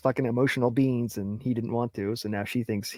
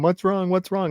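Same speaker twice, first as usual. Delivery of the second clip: higher, pushy mock nag asking what's wrong; nagging wife; 6 semitones higher than usual. Husband mocking his wife's prying, higher nagging tone. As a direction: needle him with the question, up high.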